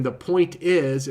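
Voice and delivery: "The point is," said slowly and deliberately; slow, deliberate pivot back to the point; re-anchoring phrase. Shown as a demonstration. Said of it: "just re-anchor by saying".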